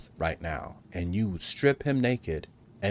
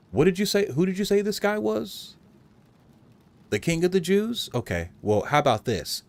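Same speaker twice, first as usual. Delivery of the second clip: hammed-up disbelief; mock surprise; 10 semitones higher than usual. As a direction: act shocked to mock him. Soldier feigning surprise.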